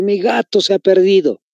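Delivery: lightly acted child's lament, no real sobs; a touch of plaintive sorrow on the sentence; sad, mock tearful. Teacher imitating a child who lost a kitten, mildly tearful. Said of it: "sino llorando, triste".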